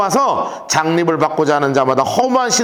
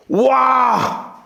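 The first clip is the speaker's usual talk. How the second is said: startled cry; 6 semitones higher than usual. Retold or imitated. Judah's soldiers startled by ambush.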